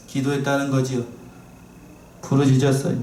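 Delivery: usual speaking voice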